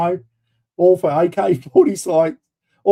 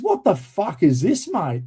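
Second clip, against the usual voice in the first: pitched up, slowed disbelief at the paperwork; incredulous outburst; 4 semitones higher, slower than usual. Retold or imitated. Warrant officer to the narrator, stunned slowed disbelief. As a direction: ask it like you can't believe your eyes.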